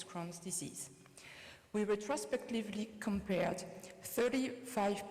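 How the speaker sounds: French-accented English. Real, not acted. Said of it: "please excuse me for my French accent".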